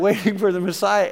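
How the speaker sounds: said through a laugh; amused echo; laughing repeat. Real, not acted. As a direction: chuckle at the irony as you repeat it.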